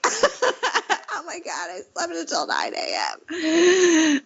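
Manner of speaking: high, slow, panicked wail; mock panic. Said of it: "I'm like".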